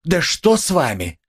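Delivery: frightened, fawning concern; alarmed fussing. Acted. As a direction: fuss over him in alarm. Porfiry frets over him.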